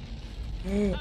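sharp intake of breath; startled gasp. Real, not acted. Player startled by the monster, gasp. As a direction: gasp in alarm.

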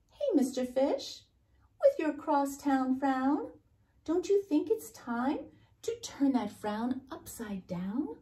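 a hint of a perky clam, pitch rising at phrase ends; lightly voiced cheery clam. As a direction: coax a grumpy friend in a lifted voice.

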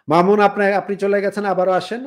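loud call to a dropped caller; to someone hard of hearing. Real, not acted. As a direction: raise the voice so they hear.

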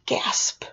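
sharp sniffed-in gasp; imitated gasp. Both boys seeing the great big spotlight, gasping. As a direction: suck in air, then say it voicelessly. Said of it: "I heard both boys".

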